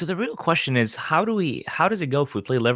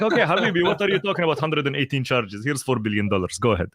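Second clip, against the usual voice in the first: lightly put-on Arab accent, brisk and sly; mock Arab accent. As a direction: play a UEFA official with a hinted Arab accent. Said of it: "the Arab accent for uefa comes in".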